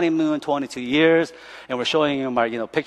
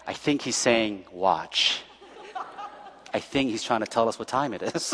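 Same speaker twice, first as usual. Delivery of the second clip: laughing through it; 4 semitones lower, 10 dB quieter than usual. Retold or imitated. Laughing while retelling friends' guessing.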